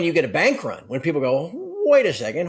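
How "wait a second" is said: light imitation of a co-host, raised and a touch louder; Andy impression. Bank-run customers halting everything, light co-host impression. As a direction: mimic your co-host in passing. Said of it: "I sound like you".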